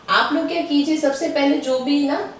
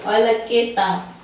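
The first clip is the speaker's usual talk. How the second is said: very slow, each sound apart; slow spelling out; much slower than usual. Shown as a demonstration. Teacher spells the word slowly for students. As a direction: spell it out syllable by syllable. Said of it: "फिर ये त".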